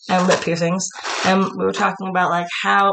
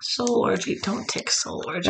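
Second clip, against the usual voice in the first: whisper; 5 semitones higher, 7 dB quieter, slower than usual. Acted. Joking whisper.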